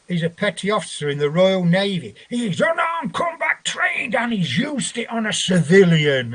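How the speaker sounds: hammed-up courtroom accusation; mock accusing shout. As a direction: bellow the charge like a prosecutor. Prosecution lying in court.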